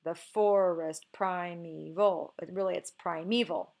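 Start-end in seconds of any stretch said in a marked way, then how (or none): 0.0-2.3 slow beat on FOR in forest and PRI in primeval; drawn-out, misplaced stresses in "forest primeval"; forced iambic stress. Shown as a demonstration. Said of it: "We don't say". 2.9-3.8 "primeval" with stress on the middle syllable, pri-ME-val; correct stress. Shown as a demonstration. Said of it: "knowing how to pronounce the word primeval".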